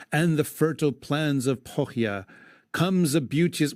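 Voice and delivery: measured verse reading; poem recitation. Acted. Host reading the epic to his cohost, recited verse. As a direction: read it aloud like old poetry.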